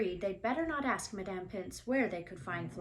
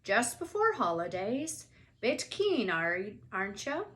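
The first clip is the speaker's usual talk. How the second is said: teasing Hagrid voice; 4 dB louder than usual. Acted.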